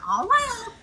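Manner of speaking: very high, squeaky little voice; silly little voice. Shown as a demonstration. Podcaster demonstrating a saying against self-seriousness, in a silly little voice. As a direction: pipe it up high, comically carefree. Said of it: "I just do it".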